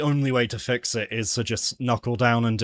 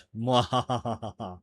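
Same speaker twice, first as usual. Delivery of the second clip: drawn-out "mwahaha" villain laugh; playful fake gloating cackle; mock evil laugh. Streamer teasing the fanboys, mock evil laugh.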